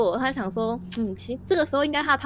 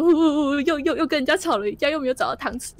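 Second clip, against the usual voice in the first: mock sobbing frog; 4 semitones higher than usual. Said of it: "小青蛙就很难过".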